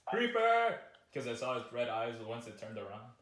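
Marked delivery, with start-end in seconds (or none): 0.0-0.8 sudden loud high yelp; startled shout. Real, not acted. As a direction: blurt it out in alarm. Spots mob in game.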